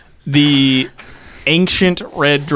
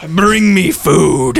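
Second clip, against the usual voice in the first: dragon voice; much slower than usual. Acted.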